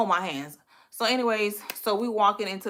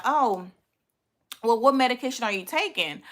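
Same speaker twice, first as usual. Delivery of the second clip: lightly raised, careful polite question; polite asking; 3 semitones higher than usual. Retold or imitated. Woman asking her date about medication without being rude, polite. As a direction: ask tactfully, masking your curiosity. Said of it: "I ain't wanna be rude".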